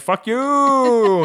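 high, loud mock curse; angry swear. Driver storms off cursing at the comic, high and loud. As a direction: spit it out like an enraged driver.

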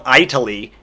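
"Italy" said with EYE at the start; wrong pronunciation. Shown as a demonstration. Comedian mocking Grover's error, "Italy" said eye-taly. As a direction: open "Italy" like the word eye. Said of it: "the country's not called".

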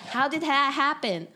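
high, slow, mock-baffled question; retold incredulity. Quoting their reaction to a friend, incredulous. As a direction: draw it out in retold disbelief.

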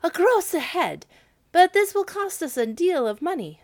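high, loud dismayed exclaim. A narrator's reading. People of Hamel exclaiming over the price, high and loud. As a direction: cry out at the cost. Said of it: "they too exclaimed".

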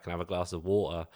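put-on "water" in a British accent with no R; asking politely in a London accent; plain British request for water. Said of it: "And I was like".

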